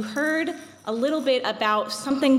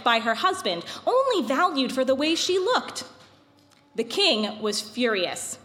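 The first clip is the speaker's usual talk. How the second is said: epic fantasy narrator. A narrator's reading. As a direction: tell it like an old legend. Reads the Purim story aloud.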